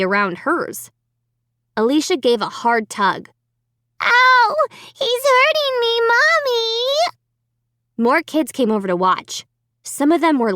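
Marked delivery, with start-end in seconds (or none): 4.0-6.7 put-on frightened child crying out. A narrator's reading. Child's hand squeezed by dummy.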